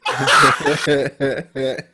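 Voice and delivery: loud high cackle; loud real laugh; big laugh. Real, not acted. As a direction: burst out laughing. Cracks up at own story.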